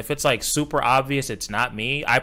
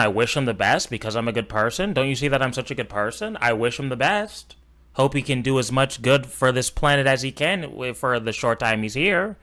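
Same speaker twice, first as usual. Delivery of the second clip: mocking fake sincerity. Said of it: "why are you saying all this bullshit".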